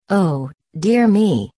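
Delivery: scared duckling moaning in dread; terrified moan. A narrator's reading. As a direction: moan it out in fright, drawn out. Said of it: "moaned the now terrified duckling".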